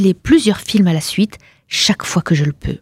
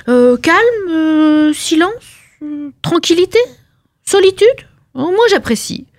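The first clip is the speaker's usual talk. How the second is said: higher, lingering over each blissful word; dreamy savouring; 8 semitones higher than usual. Acted. Wife dreaming of three days alone, higher dreamy voice. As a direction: sigh out each word like a treat. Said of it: "dreamy list of pleasures".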